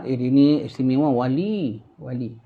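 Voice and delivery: low, hushed awe fading away; admiring whisperers. Retold or imitated. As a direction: murmur in reverent admiration. People praising him as saint. (bisikan kagum)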